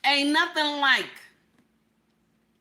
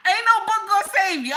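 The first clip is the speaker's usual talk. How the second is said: shouted punchline; 6 semitones higher, 4 dB louder than usual. Real, not acted.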